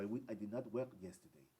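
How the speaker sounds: low, soft mock British English; British accent as if with half a tongue; half-swallowed British imitation; tongue-tied British accent. Shown as a demonstration. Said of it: "Como media lengua".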